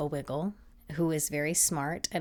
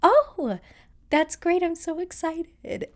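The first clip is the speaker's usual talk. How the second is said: high, loud, professional delight; excited customer service voice; 13 semitones higher, 8 dB louder, slower than usual. Retold or imitated. Colleen hearing the school has a match, excited professional voice. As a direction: gush in a put-on interview voice. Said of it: "professional, like, interview, like, customer service voice".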